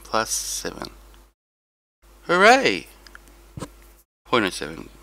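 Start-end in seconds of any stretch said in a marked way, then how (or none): 2.2-2.9 high, loud hooray, dropping away; pitched-up token cheer; mock cheer. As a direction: give a playful burst of celebration. Cheers own race points gained.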